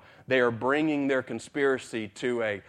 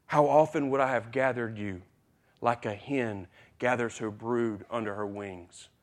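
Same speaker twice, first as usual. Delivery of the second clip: softer, grieving lament; 5 dB quieter than usual. Retold or imitated. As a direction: mourn over the city quietly. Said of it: "he says".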